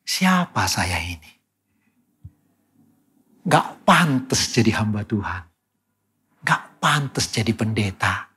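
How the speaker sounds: retold tearful lament. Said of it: "saya nangis".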